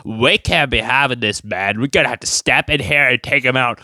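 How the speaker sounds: lightly deepened mock YouTube cop, stern warning; a hint of a self-important officer laying down the law. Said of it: "They're a little deeper voice".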